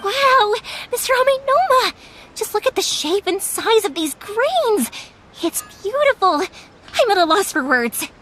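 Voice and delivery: high, delighted gasp of praise; excited wow. Acted. Yoimiya marveling at the master's ore work, excited praise. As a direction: gush over the craftsmanship.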